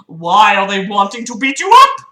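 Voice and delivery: hammed-up hero's reply, swelling at the end; mock heroic. Hero asks bullied boy why, mock heroic. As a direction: read it like a self-important hero.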